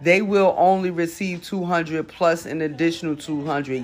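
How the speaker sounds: reading an article aloud; news reading. Acted. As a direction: read the news report.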